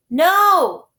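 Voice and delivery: loud, high emphatic refusal; boy refusing to ride with Stefano; firm no. Acted. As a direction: slam the refusal down. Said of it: "Klaus said firmly".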